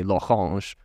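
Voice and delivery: L'Orange said the French way, lo-RAHNZH; French pronunciation. Shown as a demonstration. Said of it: "spent a couple years in France".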